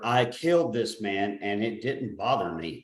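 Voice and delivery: slow, monotone bad narrator read; emotionless reading. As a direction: read it dead, like a terrible narrator. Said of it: "no emotion whatsoever".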